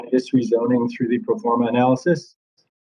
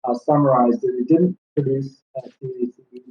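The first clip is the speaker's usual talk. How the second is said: muffled. Real, not acted. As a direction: voice muffled, as through a hand over the mouth. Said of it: "very muffled".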